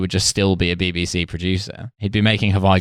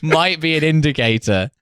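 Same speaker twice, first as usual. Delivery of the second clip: dawning bureaucrat; 6 semitones higher than usual. Pretend. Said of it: "they took to be like".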